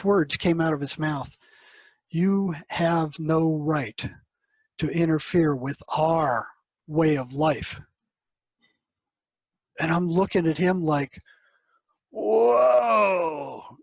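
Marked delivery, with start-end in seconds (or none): 2.1-7.8 slow, heavy retold voice of the voices; a voice not his own. Patient's voices threatening the counselor, slow and heavy. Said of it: "his voice is, changes just a little bit, got a little bit deeper". 12.1-13.8 a long, loud, falling whoa, higher; shocked whoa. Retold or imitated. Counselor hearing the voices speak, stunned and loud. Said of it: "I was shocked".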